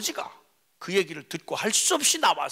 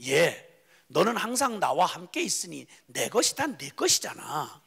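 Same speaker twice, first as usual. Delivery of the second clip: 다정한 아버지; 3 semitones lower than usual. Acted. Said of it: "아버지께서 이렇게 말합니다".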